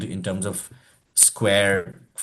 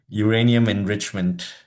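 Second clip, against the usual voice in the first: laughing. Shown as a demonstration. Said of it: "maybe try saying uranium enrichment again".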